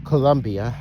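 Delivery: a light try at Spanish pronunciation; mild Spanish-accented Colombia; attempted Spanish accent. Shown as a demonstration. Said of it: "trying to say in a Spanish accent".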